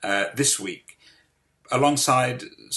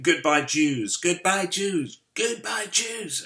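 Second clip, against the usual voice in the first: imitating little girls auditioning, higher with each take; put-on high little-girl voice, building in pitch; little American girls; 9 semitones higher, slower than usual. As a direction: mimic young girls calling out, pitch climbing. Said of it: "with little American girls saying".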